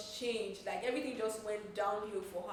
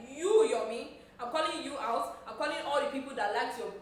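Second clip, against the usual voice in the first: louder, mock call-out shout; loud callout; 3 semitones higher, 6 dB louder than usual. Actress calling out the producer, mock loud shout. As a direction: call him out loudly, like she's naming and shaming. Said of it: "Iyabo Ojo was like".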